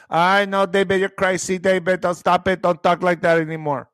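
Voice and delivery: lightly put-on El Paso Spanglish lilt; El Paso accent. Streamer imitates El Paso locals teasing a David, light El Paso accent. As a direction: imitate how people talk in El Paso. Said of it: "You'll be talking like that".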